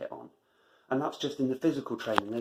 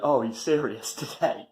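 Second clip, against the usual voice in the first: amused inner voice; 4 dB louder than usual. Retold or imitated. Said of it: "that's when the voice went".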